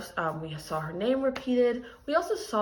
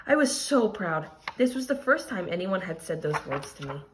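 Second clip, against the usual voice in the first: expressive read-aloud storytelling; story reading; 3 dB louder than usual. A narrator's reading. Teacher reading a picture book aloud to her class, expressive storytelling. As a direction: tell the story to the class with feeling.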